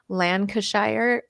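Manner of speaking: Lancashire said slowly in a plain American accent. Shown as a demonstration. Host to English viewer, Lancashire in American accent. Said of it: "I'll say that with my American accent".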